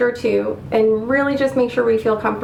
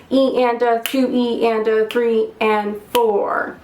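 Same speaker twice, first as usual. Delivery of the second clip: slower, evenly spaced sixteenth counting; slow practice count. Shown as a demonstration. Teacher leading sixteenths on the slow side, slow count. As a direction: stretch the count out on a steady beat. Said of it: "Let's try this on the slow side together".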